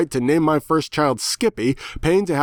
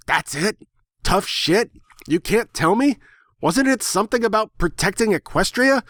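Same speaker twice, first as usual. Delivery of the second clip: rising higher with each outraged question; can't believe what he's hearing, pitch climbing; indignant disbelief; 9 semitones higher than usual. Retold or imitated. Pony protests to the bird, indignant and climbing higher.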